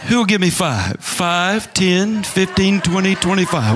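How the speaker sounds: playful mock auctioneer call. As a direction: count up the bids like an auction.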